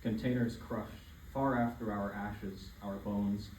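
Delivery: deliberate recital, phrases set apart by pauses; poem reading. Acted. Student reads their poem Repetition to listeners, deliberate declaimed recital. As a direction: declaim it in measured phrases, punching opening words.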